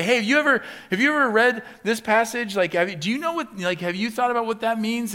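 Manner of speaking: high, loud eager asking; eager mock question. Christian asking a coworker about a passage, eagerly. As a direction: press your coworker for an answer.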